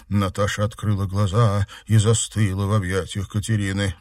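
ordinary delivery, nothing marked

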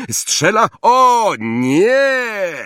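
shouted "o nie" in dismay. Acted. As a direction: cry out as the goal goes in. Commentator sees a goal.

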